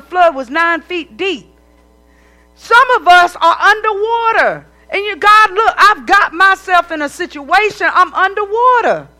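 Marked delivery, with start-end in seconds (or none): 5.2-9.1 louder, higher plea to God, as if drowning; desperate prayer. Acted. Preacher voicing a believer begging God for help, loud and pleading. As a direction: cry out to God like you're going under.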